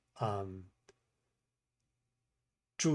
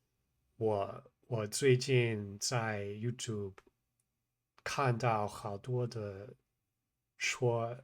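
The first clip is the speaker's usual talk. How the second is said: Mandarin sentence said slowly, "我最近在YouTube" drawn out syllable by syllable; slow practice take; 5 dB quieter, much slower than usual. Shown as a demonstration. Learner tries the sentence slower to show it falls apart, said slowly. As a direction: spell out "我最近在YouTube" word by word, very slow. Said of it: "just slower would be like".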